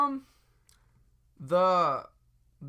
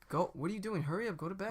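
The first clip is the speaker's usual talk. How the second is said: higher, softer nagging; mock parental impatience; exasperated babysitter; 4 semitones higher, 6 dB quieter, faster than usual. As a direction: hurry a dawdling child along. Acts a babysitter hurrying kid.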